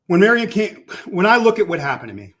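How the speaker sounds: big hall echo on the voice; echoey sound. Real, not acted. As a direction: voice ringing like a large empty room. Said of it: "you sound very echoey".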